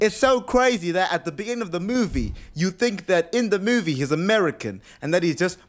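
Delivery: high-pitched mock British accent; hammed-up, badly faked British accent; Don Cheadle. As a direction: ramble on in a terrible fake British accent. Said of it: "Don Cheadle keeps speaking like this".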